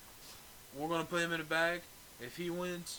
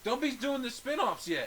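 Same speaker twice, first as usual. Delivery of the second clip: laughing; 9 semitones higher, slower than usual. Real, not acted. Laughing protest.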